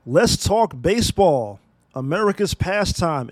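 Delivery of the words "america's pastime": "pastime" with a light lean on its first syllable "past"; stress on past. Shown as a demonstration. Podcast host mocking baseball's decline, lightly stressing "past" in "pastime". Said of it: "Emphasis on the word past".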